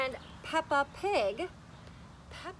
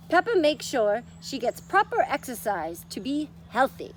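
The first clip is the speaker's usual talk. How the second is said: lightly done Peppa voice. Acted. Teacher reading Peppa is Kind to children, in a light Peppa voice. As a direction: read it like a cheerful little pig, lightly voiced. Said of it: "do this in Peppa voice fashion".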